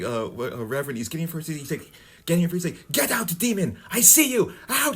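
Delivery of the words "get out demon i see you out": higher, louder mock preacher shout; retold exorcist yell. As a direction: bark it like a reverend casting out a demon. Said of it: "screaming at her".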